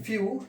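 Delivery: "फ्यू" with a clear yoo glide. Shown as a demonstration. Teacher reading out an ew word for students, demonstrated yu sound. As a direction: say "फ्यू" ending in a long yoo. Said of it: "उसका उच्चारण हमें यू में करना है".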